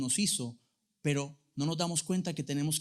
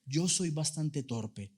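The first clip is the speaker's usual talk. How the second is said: quiet sincere confession; slower than usual. Real, not acted. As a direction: softly confess to the congregation. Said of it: "se lo digo sinceramente". (confesión sincera y pausada)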